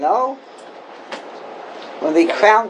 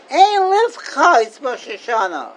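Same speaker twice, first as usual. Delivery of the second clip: mock scolding exclamation; 4 semitones higher than usual. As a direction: play the shocked elder, then drop it. Scolding people schmoozing on Rosh Hashanah.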